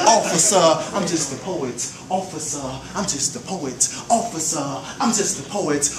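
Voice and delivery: building plea. Acted. Poet pleading with the officer, building up. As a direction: repeat the plea, building each time.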